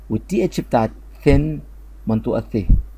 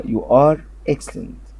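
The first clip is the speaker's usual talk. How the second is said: slow, deliberate teacher modelling; slow model reading; 3 semitones higher, 3 dB louder, much slower than usual. Shown as a demonstration. Teacher modelling an English sentence slowly. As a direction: spell it out slowly for learners.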